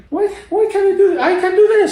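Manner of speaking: high, fast, laughing disbelief; bursting with surprise at your own strength; excited self-talk. Retold or imitated.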